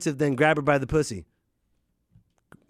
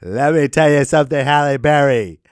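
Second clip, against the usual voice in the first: wrestler promo; 9 dB louder than usual. Retold or imitated.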